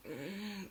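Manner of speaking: soft, closed-mouth mumble of a sleeper; quiet waking hum; sleepy stirring groan. Retold or imitated. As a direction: imitate being disturbed in sleep. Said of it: "as she's disturbing to get up".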